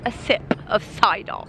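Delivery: softly put-on British accent; mock British accent. About to sip the cider, mock British accent. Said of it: "I've been practicing my British accent".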